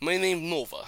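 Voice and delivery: mock Russian dog voice; Nova, Russian accent. Dog introducing herself to the hosts, mock Russian accent. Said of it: "give your dog a voice".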